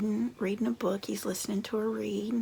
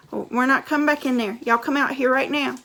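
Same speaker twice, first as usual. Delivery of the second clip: loud, fast calling from outside; shouting parents; 2 semitones higher, 11 dB louder, faster than usual. Acted. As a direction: call the kids out.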